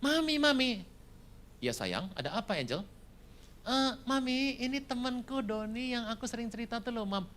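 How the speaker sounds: high sweet calling voice; calling mommy. Retold or imitated. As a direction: call your mom sweetly. Daughter introduces boyfriend.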